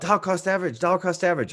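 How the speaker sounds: high, mock Chinese-accented yell. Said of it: "make fun of a culture by using an accent".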